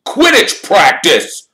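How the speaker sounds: high, slow, loud team captain rousing a sleeper; Wood's eager voice. Acted. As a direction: bellow it out like a keen captain at dawn.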